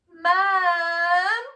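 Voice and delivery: high, loud, drawn-out whine; whining sister. A narrator's reading. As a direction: tattle to mum like a little sister. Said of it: "whined Alfie's sister".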